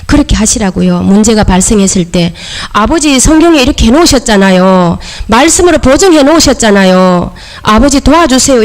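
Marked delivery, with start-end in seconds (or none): 2.7-8.6 demonstrated bold prayer, pitch a little raised; insistent plea to Father. Shown as a demonstration. Believer praying when trouble comes, insistent and familiar. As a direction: press Father on his own promise. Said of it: "이렇게 막 해보시라고요".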